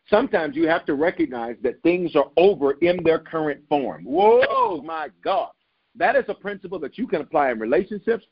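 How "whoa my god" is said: excited whoa. Real, not acted. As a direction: caught by his own line, whoa up high. Preacher struck by own point.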